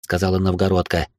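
plain reading voice

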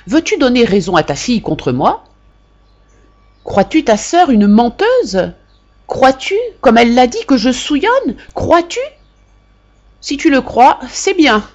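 mother reproaching her sister by letter; wounded angry sister. A narrator's reading. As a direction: press each question harder. Mother's bitter reply to sister.

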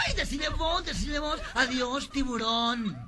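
high-pitched affected coquetry; campy flirting. Acted. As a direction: call out coyly in a high, theatrical voice. El otro coquetea con el grandote. (coqueteo agudo y afectado)

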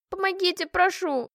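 high pleading cry, on the edge of tears; cry for help. Acted. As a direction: beg the officer for help. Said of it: "я закричала снова". (крик о помощи сквозь слёзы)

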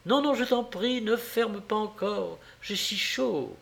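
high, light pleading. A narrator's reading. Wife begging husband to leave window open, pleading.

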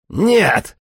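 shouting no. A narrator's reading. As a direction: yell it out in refusal. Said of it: "заорал я".

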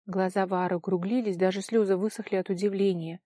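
ordinary delivery, nothing marked

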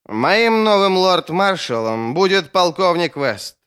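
loud, high, slow announcement; royal proclamation. A narrator's reading. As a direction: declare it to the whole council, slowly and forcefully. Drunk king proclaims his choice.

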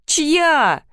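high, drawn-out amused question; mild amused question. A narrator's reading. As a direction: ask it as if through laughter. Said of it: "спросил сквозь смех". (весело, будто сквозь смех)

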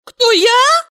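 woman taken aback by the question; surprised. A narrator's reading. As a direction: caught off guard. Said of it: "удивилась Валерия".

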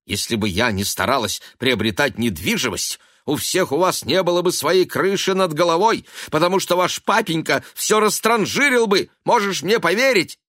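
сердитая отповедь, громче и выше; резко отчитай сына; сердито. A narrator's reading. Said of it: "сердито сказала Элиза". (Элиза сердито отчитывает сына, громче и выше)

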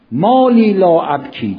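slow, drawn-out Arabic supplication; impassioned recitation. Acted. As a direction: stretch out the lamenting line. Repeats the supplication's lament.

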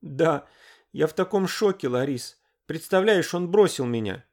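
high, loud, tearful outburst; sobbing. A narrator's reading. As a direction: pour out the hurt through tears. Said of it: "разрыдалась прямо в трубку".

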